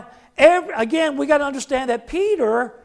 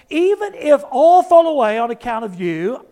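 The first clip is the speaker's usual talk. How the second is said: emphatic vow; 4 semitones higher, 5 dB louder than usual. Acted. Peter vowing loyalty, preacher voicing.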